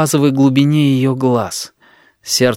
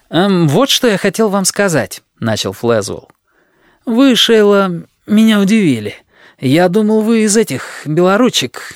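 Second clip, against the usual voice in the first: lightly raised eager suitor voice; a earnest suitor, a bit higher; Flezwell voice; 5 semitones higher than usual. Acted.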